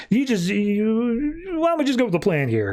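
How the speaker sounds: retold exasperated pleading; acted exasperation. Villain losing patience with Manta.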